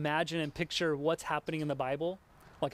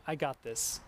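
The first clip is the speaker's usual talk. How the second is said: calm "I got this" with no doubt; confident attitude; 4 semitones lower, 4 dB quieter than usual. Shown as a demonstration. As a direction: lower and settled, quietly sure. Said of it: "just write somewhere".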